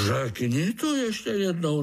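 sulky challenge. A narrator's reading. Pája dares the fly groom, bristling. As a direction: puff up and dare him. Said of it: "nasupil se Pája".

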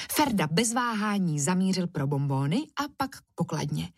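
plain reading voice

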